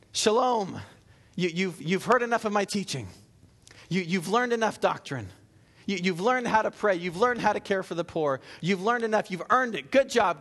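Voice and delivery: lightly voiced upbeat teacher praise; mock congratulating Jesus. Pastor imagining a wrong Jesus praising disciples, mock cheerful. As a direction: pretend Jesus hands out a pat on the back. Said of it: "does he give him a Bible quiz".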